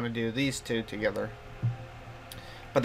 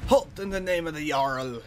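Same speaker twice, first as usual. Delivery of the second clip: lightly voiced guard's challenge; mimicking game guard. Player echoing the guard's line from the game, light mimicry. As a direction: parrot a guard's command in a lightly put-on voice.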